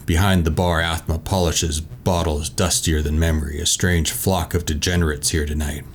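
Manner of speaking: measured read-aloud scene setting; story narration. A narrator's reading. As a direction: read the box text like a storyteller. Reads boxed tavern description.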